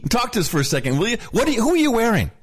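red carpet reporter. Retold or imitated. Mocking Blitzer as a red carpet host calling to stars. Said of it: "this is literally like".

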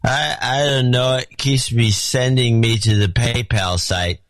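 lightly slurred tipsy reading; drunk voice. Pretend. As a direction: read it like you've had a few. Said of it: "so I have to do it in the drunk voice".

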